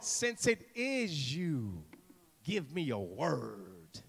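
slow, sinking low and soft; drawn-out dramatic appeal; hushed plea. Acted. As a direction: plead softly, stretching the last word. Acts Peter's plea, slow and hushed.

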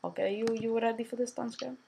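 thick put-on Russian accent, broken English; heavy Russian accent menace. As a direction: play a comic Russian gamer with a heavy accent. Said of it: "Shut up, talking like that, you sound stupid".

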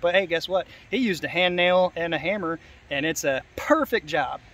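dry mock praise, slowing on the last phrase; sarcastic. Real, not acted. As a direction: praise the botched work with understated sarcasm. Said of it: "Sorry for the sarcasm".

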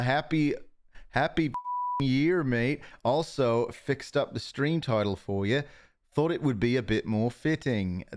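put-on botched Australian accent sliding into British; bad Australian accent. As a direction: try an Australian accent and miss. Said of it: "I can't do an Australian accent".

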